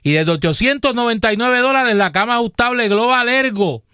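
measured sponsor pitch with prices; steady promotional announcer delivery; radio ad read. Real, not acted. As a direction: sell it like a live radio host.

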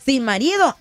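ordinary delivery

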